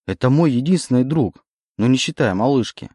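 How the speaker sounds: indignant. Acted. Oleg defends his only friend to the demon, indignant. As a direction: Oleg objects, hurt on his friend's behalf. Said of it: "возмутился Олег".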